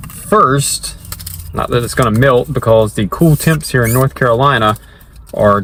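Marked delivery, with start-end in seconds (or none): 0.1-0.9 excited. Real, not acted. About to taste the shake.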